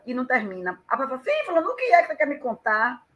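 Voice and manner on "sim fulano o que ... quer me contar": quick, higher, acted impatient question; lightly mock-impatient, rushing to know; impatient curiosity. Person left waiting for the news, acted impatient curiosity. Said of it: "aquilo te dá um nervoso".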